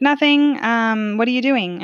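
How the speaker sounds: a light voicing of grandma asking; imitating grandmother. Grandmother asking her granddaughter on the phone, lightly voiced.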